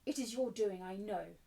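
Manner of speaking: a touch of fierceness; fierce accusation. Acted. Mistress turns on Sarah, fierce accusation. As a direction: accuse firmly, opening stronger. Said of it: "She turned fiercely on Sarah".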